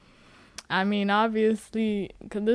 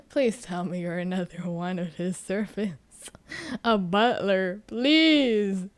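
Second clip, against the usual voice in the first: awkward stalling; 3 dB quieter than usual. Retold or imitated. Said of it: "staring at this guy like".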